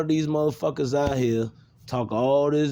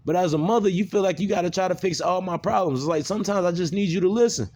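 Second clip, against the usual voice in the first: higher-pitched, insistent retold complaint; aggressive venting; 4 semitones higher than usual. Son telling mama he just needs her to listen, aggressive venting. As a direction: vent at mom, pressing each point. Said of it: "when I use my aggression".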